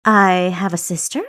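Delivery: a mocking, sarcastic question. A narrator's reading. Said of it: "slathered her response in sarcasm".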